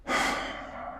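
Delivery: soft, voiceless sigh; quiet exhale of defeat; resigned sigh. Acted. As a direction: let the breath go softly. Just a hole left.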